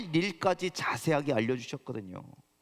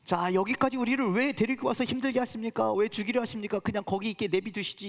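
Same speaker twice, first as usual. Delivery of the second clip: pleading complaint pitched higher; complaining prayer; 5 semitones higher than usual. Retold or imitated. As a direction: cry out at God in reproach, raised. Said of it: "이렇게 원망하고 있는".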